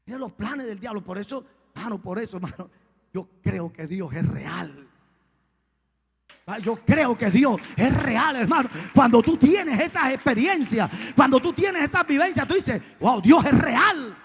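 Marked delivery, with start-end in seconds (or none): 3.1-4.9 slow, low declaration of faith; slow, measured conviction. Real, not acted. Preacher telling the congregation his belief, slow and measured. 6.5-14.2 loud, raised, full-force preaching; impassioned preaching shout. Real, not acted. Preacher declaring faith from experience, shouting with fervour.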